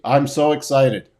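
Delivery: mock deadpan; dry, bored fake enthusiasm. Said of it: "that sounded like me with my deadpan voice".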